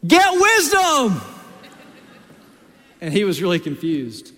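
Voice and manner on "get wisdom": high, loud, slow shout; big drawn-out shouted "Get wisdom!"; retold yell. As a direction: yell it across the car at the son. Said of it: "and I yelled".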